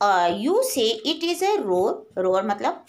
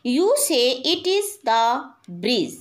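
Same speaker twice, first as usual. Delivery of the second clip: slow poem recitation; much slower than usual. Acted. Teacher reading the poem line to her class, slow and measured. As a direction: draw out each word slowly, recitation style.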